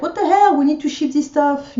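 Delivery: high, loud retold outburst; retold exasperation. Retelling customers waiting at the post office, exasperated outburst. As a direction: imitate a fed-up queue, pitch jumping up. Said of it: "everyone was like".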